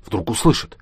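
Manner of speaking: a soft hissed shush; hushing. A narrator's reading. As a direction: hush him before they're heard. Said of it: "Якушев шикнул на него". (тихое шиканье)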